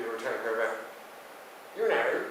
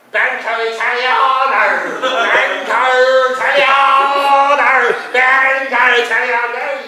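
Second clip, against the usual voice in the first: loud, slow, higher mock Italian declaration; hammed-up Italian; 7 semitones higher, 13 dB louder, slower than usual. Mocking the waiter with a loud hammed-up Italian cry. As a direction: belt out the fake Italian bank name.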